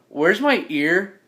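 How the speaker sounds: slow, drawn-out question; mildly insistent and drawn out; insistent, not angry. Acted. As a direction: ask it slowly, without anger. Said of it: "like, not angry, I'm just like".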